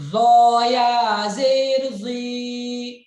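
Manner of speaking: ज़ो said thick with the tongue at the teeth, loud; tongue on the teeth, heavy voice for ज़ो; heavy zoe. Shown as a demonstration. Teacher showing students the heavy zoe with a thick voice. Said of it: "आवाज मोटी करेंगे".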